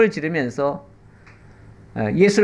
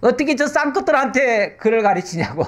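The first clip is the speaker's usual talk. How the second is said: indignant nobles; 6 semitones higher than usual. Retold or imitated. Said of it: "양반들이 난리가 났어요".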